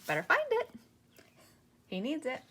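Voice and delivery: mock angry shout. Angry retort at the clerk.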